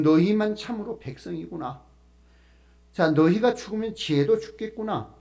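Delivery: a touch of mockery in the quote; mocking. Job mocks his friends who looked down on him, mocking. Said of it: "조롱하는 형식으로 이렇게 말하는 거예요".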